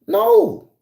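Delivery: very high mock protest; alarmed refusal. Exerciser warding off approaching woman, high mock-alarmed refusal.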